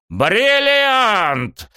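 high, loud, elated cry; sudden yell. A narrator's reading. Coach joyfully thumping student, elated yell. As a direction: holler it out in joy. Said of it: "завопил он вдруг опять".

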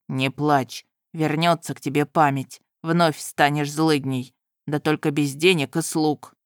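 put-on calm a crying girl; soothing groom. Groom comforts, teasing.

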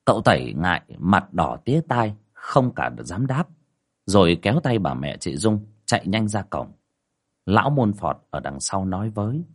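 measured storytelling voice over music; story narration. A narrator's reading. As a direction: tell the ghost tale steadily. Narration between quotes.

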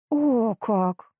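"О, как!" with each word set apart and pressed; separate, emphatic words. A narrator's reading. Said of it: "раздельно произнося с нажимом слова, воскликнула".

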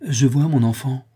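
lifted voice with joy held in; barely contained joy. A narrator's reading. Rodolphe to the girl he protects, barely containing joy. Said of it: "pouvant à peine contenir sa joie".

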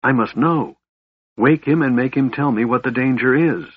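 high, insistent demand; commanding. A narrator's reading. Alhana demanding to know the danger, commanding. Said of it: "she commanded, her black eyes flaring".

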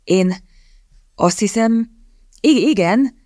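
nervous halting stammer. Acted. Shy young man answering Kitty, stammering. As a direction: stumble over the yes. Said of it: "hebegte a fiatalember".

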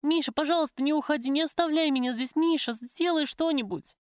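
high, loud, panicked begging; desperate pleading. A narrator's reading. Prisoner begs her lover not to leave her, desperate. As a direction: beg frantically, dragging out the final plea. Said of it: "закричала я".

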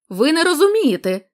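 loud shout. Acted. Nunez shouting at the blind villagers, strained loud cry. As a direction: try to sound mighty but strain. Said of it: "закричав він гучним голосом".

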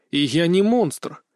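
ordinary delivery, nothing marked

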